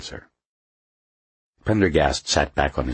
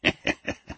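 cackle; 4 dB quieter than usual. A narrator's reading. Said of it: "He cackled".

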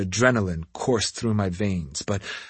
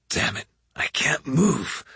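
breathless whisper; whispered thought; 3 semitones higher, 3 dB quieter than usual. A narrator's reading. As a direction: hiss it under your breath. Pinned hero's inner thought.

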